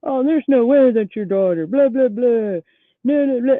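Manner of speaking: mock a butting-in stranger, loud and yammering; mocking cowboy guy. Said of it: "this little cowboy guy, like, behind me".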